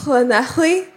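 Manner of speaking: tentative "Llanelli", kl-like Welsh ll, rising; learner's Welsh pronunciation. Shown as a demonstration. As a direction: try "Llanelli" as a question, ll near kl. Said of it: "That's pretty good".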